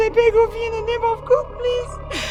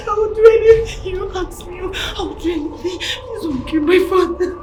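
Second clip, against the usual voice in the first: begging through sobs, louder; tearful pleading; 3 semitones lower, 3 dB louder than usual. Acted. Daughter begs the kidnapper not to kill her father, sobbing. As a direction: plead for his life while crying.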